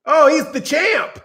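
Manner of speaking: drawn out and pushed, slow; mock eager praise. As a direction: praise him like a proud parrot. Mock fighter repeating praise.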